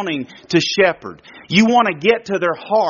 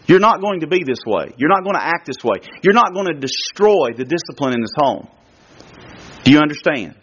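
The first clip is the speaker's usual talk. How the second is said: stern father; 3 semitones lower than usual. Retold or imitated. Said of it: "when I'm upset with her".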